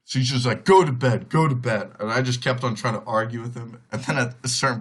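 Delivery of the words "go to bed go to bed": imitated angry order, first burst loudest; mock an uncle firmly sending someone off; mad uncle. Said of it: "he is mad".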